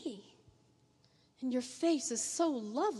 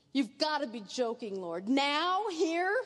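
shocked disbelief. Acted. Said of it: "shocked and doubtful and almost angry".

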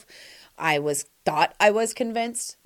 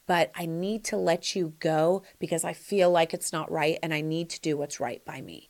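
gentle breakup; 3 semitones lower, 4 dB quieter than usual. Retold or imitated. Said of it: "and say".

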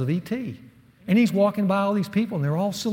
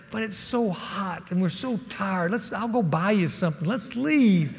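mock whiny plea; 2 semitones higher than usual. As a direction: whine like a worn-out dad in the heat. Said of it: "I slumped my shoulders".

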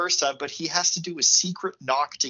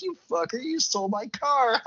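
laughing insult; 8 semitones higher than usual. Retold or imitated. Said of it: "the uncle just starts laughing".

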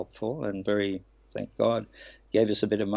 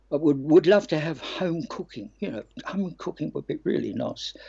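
imitating Frankie; 5 semitones higher than usual. Quoting Frankie wanting home cooking.

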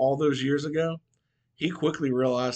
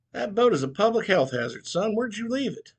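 preacher voice; 9 semitones higher than usual. Acted. Preacher's voice, higher.

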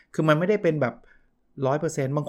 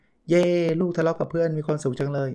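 mock delight; 4 semitones higher than usual. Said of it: "เราดีใจไหม".

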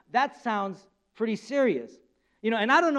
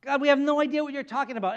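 playing innocent; 2 semitones higher than usual. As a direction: act wide-eyed innocent. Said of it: "they're playing innocent".

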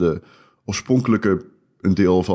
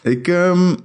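stuffy cold voice; talking through a head cold; blocked nose; 6 semitones higher than usual. Real, not acted. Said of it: "ik ben verkouden".

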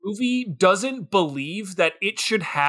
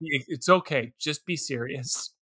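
low and much softer, begging; tired plea; 5 semitones lower, 8 dB quieter than usual. Retold or imitated. A viewer pleading with the silly movie, soft and low. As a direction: sigh out a quiet please stop.

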